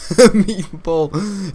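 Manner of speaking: very slow, stretched taunt; slow, loud meatball; drawn-out mock. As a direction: stretch every syllable out.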